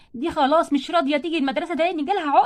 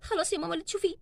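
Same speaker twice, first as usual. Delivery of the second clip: much softer, defeated; resigned; 9 dB quieter than usual. Acted. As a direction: give in, barely audible. Girl gives up.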